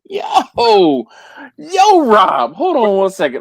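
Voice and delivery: loud, high call across the room; hailing a friend loudly. Real, not acted. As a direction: shout to get Rob's attention. Calling out to Rob.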